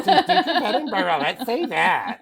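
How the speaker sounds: hammed-up Spanish accent saying Edinburgh; sexy Spaniard voice. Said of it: "let me talk like this and I can pronounce it".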